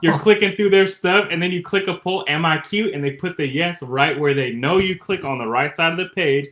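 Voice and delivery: high, loud animated rant; excited. Real, not acted. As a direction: rant about it, worked up. Excited rant about polls.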